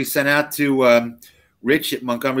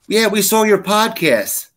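higher, slow, drawn-out fan voice; lightly mocking a rider who recognised him; imitating a fan; 8 semitones higher, 3 dB louder, slower than usual. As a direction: stretch it out like a proud fan. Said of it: "And he goes".

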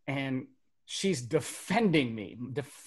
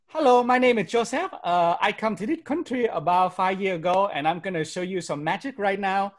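higher-pitched put-on Vietnamese accent; stage act in a hammed-up Vietnamese accent; mock Vietnamese accent; 5 semitones higher, 4 dB louder than usual. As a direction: greet the crowd in an exaggerated Vietnamese accent. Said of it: "I started doing my accent".

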